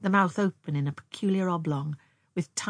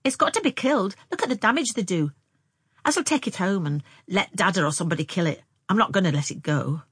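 a hint of a determined girl, louder; lightly voiced country girl; 2 semitones higher, 4 dB louder, faster than usual. Anne telling her sister the mole must die, lightly voiced insistence. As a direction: argue your case as a lightly voiced girl. Girl answers in story dialogue.

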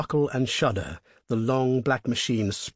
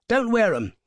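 higher, louder, incredulous gentleman's voice; bluffing young toff; 11 semitones higher, 5 dB louder than usual. A narrator's reading. Motorist protesting to the highwayman, high and incredulous. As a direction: laugh it off as an outrage. Traveller's reply.

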